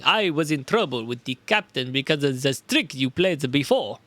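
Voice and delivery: put-on a shaky try at a Russian sailor accent; attempted Russian accent. Sailor accusing the detective, in an attempted Russian accent. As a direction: try for Russian but slide back into German. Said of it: "That's still my fucking tr- the other voice".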